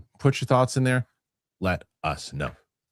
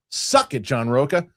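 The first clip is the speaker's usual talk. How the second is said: gloating taunt; 4 semitones higher, slower than usual. Acted. Taunting the critic.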